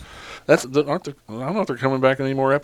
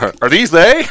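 imitating the Monarch; 6 semitones higher, 7 dB louder than usual. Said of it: "the Monarch comes up and he goes".

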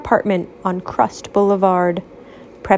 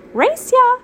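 playful challenge; 3 dB louder than usual. Acted. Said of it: "Pancake asked".

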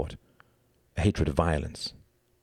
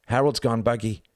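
higher, urgent shouted report; 6 semitones higher than usual. Acted. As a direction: shout the news to the others. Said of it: "shouted Tom".

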